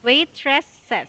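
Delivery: "Waitresses" as wait-tress-es, each part sounded; three clear syllables. Shown as a demonstration. Teacher modelling for confused student, "Waitresses" in three distinct syllables. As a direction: give "Waitresses" its extra es ending. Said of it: "There are three syllables".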